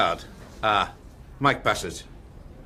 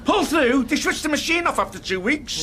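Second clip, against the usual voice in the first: higher-pitched incredulous comeback; indignant retort; 5 semitones higher than usual. Acted. Manager rowing with agent over a bad signing, indignant retort. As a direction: throw it back in disbelief.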